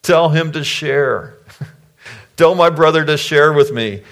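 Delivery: high-pitched mock crying complaint; mock whining. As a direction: whine like a wronged little brother, hammed up. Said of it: "he's crying and whining and complaining".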